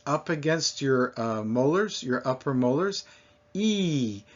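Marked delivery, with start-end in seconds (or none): 3.5-4.2 E with tongue squeezed up at the sides; stretched E vowel; held E. Shown as a demonstration. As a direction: demonstrate a long pure ee. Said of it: "squeezed up on the sides".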